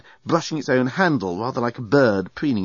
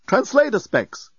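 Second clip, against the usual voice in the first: high, slow, mildly unhappy; unhappy robot; 12 semitones higher, slower than usual. A narrator's reading. Bellbot hands passenger spectacles, unhappy. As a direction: explain it reluctantly, drawn out. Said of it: "explained the bellbot unhappily".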